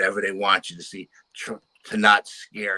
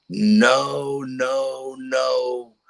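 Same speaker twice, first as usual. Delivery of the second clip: higher, frantic cries of no; retold screaming; 4 semitones higher, 5 dB louder, much slower than usual. Daughter screaming at the aliens in the night, frantic high cries. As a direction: plead in panic, voice pitched up. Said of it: "starts screaming bloody murder".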